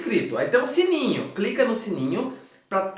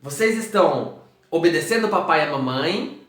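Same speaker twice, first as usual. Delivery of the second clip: put-on big goofy kids' host hello; silly clown; 6 dB louder than usual. Kids show host greeting children.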